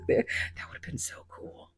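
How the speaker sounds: hushed regret; whispered. Real, not acted. Wishing she had the room picture, whispered. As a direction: say it under your breath.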